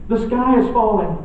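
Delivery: panicky Chicken Little. Acted. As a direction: squawk it out like a frightened little chicken. Birds tell Foxy Loxy.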